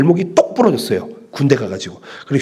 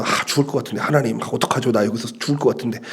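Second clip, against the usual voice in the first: desperate Jonah; 5 semitones lower, 7 dB quieter, faster than usual. Acted. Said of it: "요나는 이 물고기 뱃속에서".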